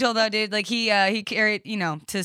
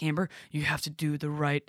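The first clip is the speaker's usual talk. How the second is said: lower-key, softer imitation of brother; calming brother; 3 semitones lower, 6 dB quieter than usual. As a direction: imitate a brother gently talking someone down. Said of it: "he's, like, calming me down".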